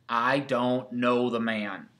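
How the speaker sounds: slow, emphatic denial; sworn denial. Acted. Peter denying he knows Jesus, slow sworn denial. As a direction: stretch out each word, deliberate and firm. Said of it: "this time with an oath".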